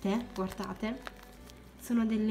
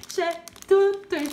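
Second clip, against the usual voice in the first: excited, slow; 8 semitones higher, 8 dB louder than usual. Real, not acted. Excited after reveal.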